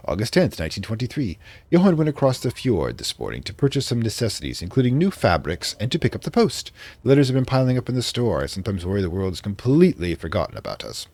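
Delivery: put-on light British accent for a diary entry; reading a diary in a mild British accent; vaguely British accent. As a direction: read it like a 1920s English diarist. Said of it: "I'm doing a vaguely British accent".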